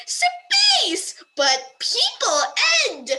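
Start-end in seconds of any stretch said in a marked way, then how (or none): 0.1-1.2 high yelp of frustration; loud squeal of annoyance; exasperated shout. Real, not acted. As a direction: blurt it out in comic outrage. Exasperated at transcription.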